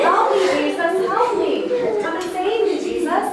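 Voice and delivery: high, very loud cry for help; loud pleading. Acted. Blind Bartimaeus begging Jesus to save him, shouting. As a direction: shout desperately over the crowd. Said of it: "He kept saying".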